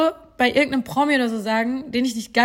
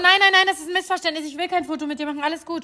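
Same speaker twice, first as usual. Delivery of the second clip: flustered denial; 6 semitones higher, faster than usual. Retold or imitated. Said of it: "Ich so".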